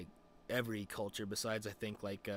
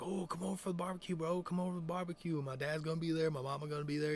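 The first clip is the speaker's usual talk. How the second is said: higher, put-on voice of inviting buddy; coaxing friend imitation; 5 semitones higher than usual. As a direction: coax him over as the friend. Friend's barbecue invitation, retold.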